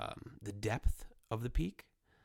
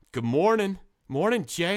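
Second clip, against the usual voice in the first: whisper; 8 semitones higher, 8 dB louder than usual. Pretend. The V greets him.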